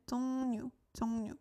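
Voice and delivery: 종류 said as "jong-nyu", ㄹ as N; pronounced with N. Shown as a demonstration. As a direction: say 종류 with an N sound opening the second syllable. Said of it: "pronounced like an".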